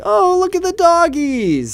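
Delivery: put-on high, slow baby talk to dogs; cute puppy voice. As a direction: coo at the doggies. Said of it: "the most embarrassing, cute puppy type voice".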